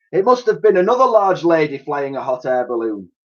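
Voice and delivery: Dotty making an obvious excuse, high-voiced; Dotty fibbing. A narrator's reading. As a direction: fib with a straight face.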